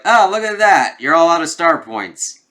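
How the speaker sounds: high, loud taunting call; mock-surprised taunt. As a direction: taunt them with hammed-up surprise. Acts out Steve taunting the villain.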